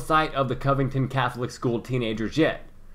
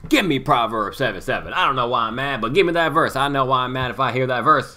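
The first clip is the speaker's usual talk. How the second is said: mock angry preacher; 2 semitones higher, 5 dB louder than usual. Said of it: "That man doesn't even know why he's angry".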